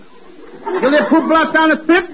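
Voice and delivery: slowly mimicking the kid's puffed T sounds; mocking the lisp. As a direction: echo him, turning T into P, with a laugh. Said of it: "what kind of talk is this".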